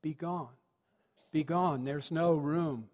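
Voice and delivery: put-on child actor repeating the prompted line at full voice; dutiful innkeeper. Boy innkeeper echoing the prompter in the play, dutiful. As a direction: repeat the fed line aloud, last words drawn out. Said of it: "So he goes".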